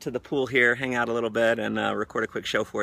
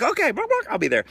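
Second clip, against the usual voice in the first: high squawky chicken voice with buck-bucks, much higher; clucking chicken excuse; 13 semitones higher, 5 dB louder, faster than usual. Retold or imitated. Team member who skipped the event, as a clucking chicken. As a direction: cluck out the excuse like a flustered hen. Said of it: "And they're like".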